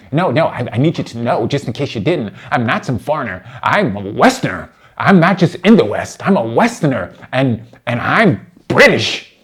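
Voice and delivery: mock insistent Westerner. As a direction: insist on it self-importantly, punching the key words. Mimics opponent insisting he is Western.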